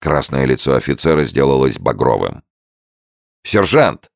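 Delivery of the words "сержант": loud, high fierce question. A narrator's reading. Lieutenant asks the sergeant about the soldier, fierce. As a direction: demand it with fury. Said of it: "свирепым голосом".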